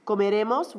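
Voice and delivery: Comeremos stressed on -re-, no final accent. Shown as a demonstration. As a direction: put the weight on -re- of Comeremos. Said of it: "It's gotta be where that accent falls".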